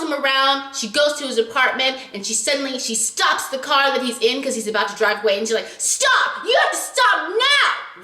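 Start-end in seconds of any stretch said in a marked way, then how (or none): 5.8-8.0 high, urgent cry to stop; frantic yell. Retold or imitated. Heroine yells at the teacher to stop the car, high and frantic.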